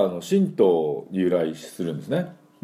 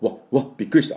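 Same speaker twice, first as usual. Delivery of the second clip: startled gasp; 3 semitones higher, faster than usual. Shown as a demonstration. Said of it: "みたいな、わですね".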